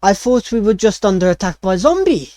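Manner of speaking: a chef startled by the news; mock terrified. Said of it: "he looks at you, like, terrified".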